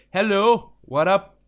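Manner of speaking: hammed-up foreign-accented greeting; countrymen's accented English. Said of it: "people in my country usually sound like".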